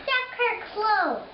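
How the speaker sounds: put-on English accent. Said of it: "What kind of English accent".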